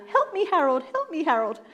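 yelling for help. Retold or imitated. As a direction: call out to Harold in panic. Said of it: "yelling out".

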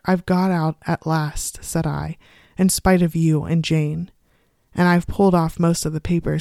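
measured, articulated storybook read; story narration. A narrator's reading. Woman reads her secret diary of the wallpaper, story narration. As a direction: read the first-person tale aloud, steadily.

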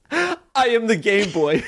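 put-on high, drawn-out Game Boy proclamation; frustrating high octave. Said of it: "I found this sort of octave that's very frustrating to hear".

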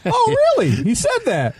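high, loud fake astonishment; sarcastic gasp of surprise; mock surprise.

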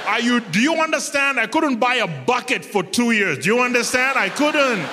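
high, pleading mock rant; exasperated plea to a fellow black man. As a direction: beg him to stop, half laughing at it. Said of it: "I was like".

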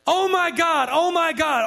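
high, loud mock-panicked wailing; imitated loud cry. Imitating atheist woman as plane falls, high loud cry. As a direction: mimic a passenger crying out over and over. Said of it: "in a very loud voice saying".

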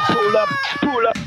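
high, hyped-up toasting yell, half laughing; hyped-up mock toast. Caller toasting mockingly to the radio host, high and hyped. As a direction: hype it up like a dancehall selector, laughing.

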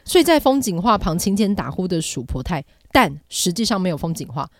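rushed in one breath; all in one breath. Real, not acted. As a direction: race through it breathlessly. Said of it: "一口气念完".

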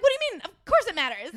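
hammed-up high, loud protest; indignant retort. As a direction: reenact an incredulous, squealed objection. Acting out argument with Mac.

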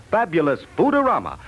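ordinary talk, nothing marked

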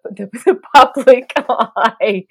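laughing. Real, not acted. Laughs mid-phrase.

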